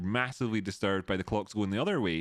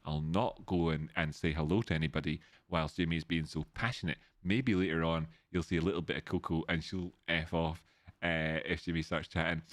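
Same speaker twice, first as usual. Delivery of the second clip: lightly voiced pet speaking her mind, lower pitch; Coco the pet's thoughts; 5 semitones lower than usual. Streamer voicing his pet Coco's thoughts to chat, in a mildly lowered voice. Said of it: "And Coco thought to herself".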